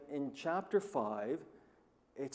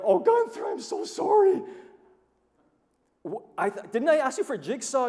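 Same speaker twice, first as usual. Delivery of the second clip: much higher, louder flustered apology; mock apologetic dismay; 12 semitones higher, 10 dB louder than usual. To Gunther, apologizing for the saw mix-up, in a high flustered voice. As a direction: gasp it out, embarrassed and rushed. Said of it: "I'm going".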